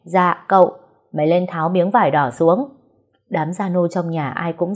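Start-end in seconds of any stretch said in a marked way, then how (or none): 0.0-0.7 a servant's quick loud yes; loud reply. Acted. Servant answers young master's call loudly. 1.1-2.7 loud order. Acted. Master orders servant.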